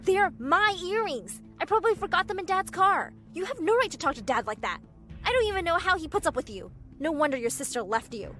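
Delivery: loud, high, furious tirade; shouting. A narrator's reading. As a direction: lash out at Mom at full voice. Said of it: "I shouted at her".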